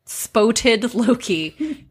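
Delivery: spoted stretched slowly through a laugh; spoted Loki drawn out, laughing. Real, not acted. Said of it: "I could retry it".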